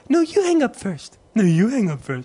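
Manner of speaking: high, giggly lovey-dovey voice; mock a giggling couple on the phone; giggly late night call. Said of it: "You two have, like".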